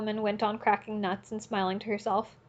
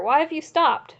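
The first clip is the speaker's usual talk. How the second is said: much higher, louder jeer; shout; 6 semitones higher, 5 dB louder than usual. A narrator's reading. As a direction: taunt him to go on. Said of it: "shouts were heard in the crowd".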